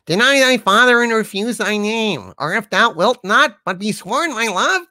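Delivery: high mock-feminine recital; falsetto Juliet. Sidekick as Juliet pleading with Romeo, falsetto.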